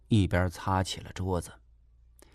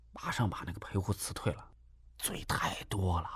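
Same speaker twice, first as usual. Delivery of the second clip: low, soft, half-whispered scheming; a soft conspiratorial murmur; hushed plotting; 3 semitones lower, 11 dB quieter than usual. Acted. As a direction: keep it down so the caretaker won't hear. Plotting about the caretaker.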